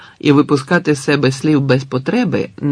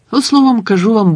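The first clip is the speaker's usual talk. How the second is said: much higher, louder interjection; impatient; 9 semitones higher, 5 dB louder than usual. A narrator's reading. The storyteller breaks off his reverie, emphatic. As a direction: cut yourself off sharply.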